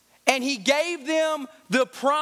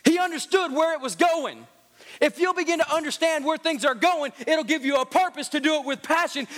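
preaching; 2 semitones higher than usual. Acted. Preacher builds to full force.

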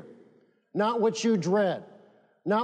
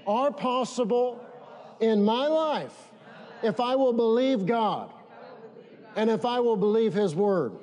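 slow declaration to repeat. Shown as a demonstration. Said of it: "Say this, say".

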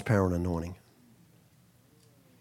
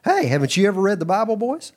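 paraphrased Jesus; 6 semitones higher than usual. Retold or imitated. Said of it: "I'm paraphrasing some of this".

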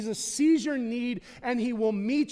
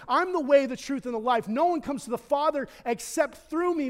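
loud, higher declaration of the verse; proclaimed scripture; 6 semitones higher, 5 dB louder than usual. Acted. Pastor proclaiming the verse to the congregation, loud and fervent. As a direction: declare it with full conviction. Quoting Jesus at climax.

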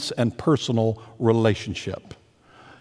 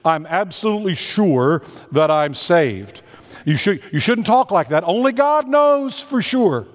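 rising to a much higher, prim pitch on the last words; mocking quote; 3 semitones higher than usual. Pastor mimics critics who call assurance arrogant, prim and mocking. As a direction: imitate a self-righteous critic, lightly mocking. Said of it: "heard people say that they think".

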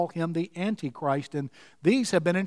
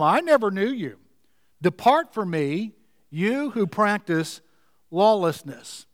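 slow solemn declaration. Retold or imitated. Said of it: "I will declare to them".

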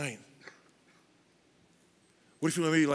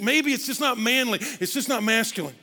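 doubtful man; 8 semitones higher, 5 dB louder than usual. Retold or imitated. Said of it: "And you think".

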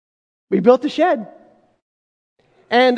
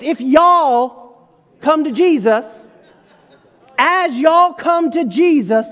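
a light Southern drawl on y'all, slowed; lightly Southern preacher, slowed down; Southern accent; slower than usual. Shown as a demonstration. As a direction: say y'all come to Jesus like a Southerner. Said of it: "did I get an accent there?".

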